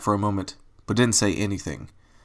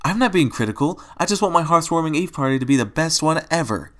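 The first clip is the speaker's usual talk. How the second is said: Pinkie Pie voice; 6 semitones higher than usual. A narrator's reading. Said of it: "Pinkie Pie said".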